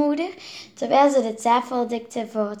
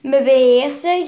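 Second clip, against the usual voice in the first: shrieking; 3 semitones higher, 8 dB louder than usual. Acted. Girl to her father about the pig: shrieking. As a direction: fling his words back at him. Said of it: "gilde Veerle".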